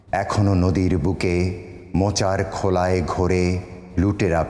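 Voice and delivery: sustained, measured recital with long pauses; solemn Bengali poetry recitation; poem recitation. Acted. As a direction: recite each line as verse, drawing out the endings. আমি এই কবিতাটি আপনি অনুমতি দিলে আমি শোনাতে পারি.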